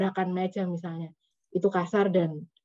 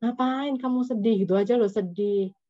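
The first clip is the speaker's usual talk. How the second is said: high, belittling mock reproach; judgmental; 4 semitones higher than usual. Judging listener, high belittling of a sad friend. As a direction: make their sadness sound trivial. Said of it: "contoh sikap menghakimi yang banget kelihatan".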